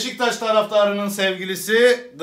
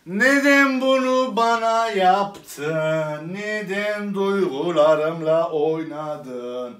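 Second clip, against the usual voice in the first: mock heartbroken plea; much slower than usual.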